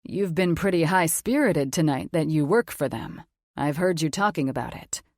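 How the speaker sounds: a mature man, calm and sure of himself; authoritative confident man. Acted. Logan voiced as man.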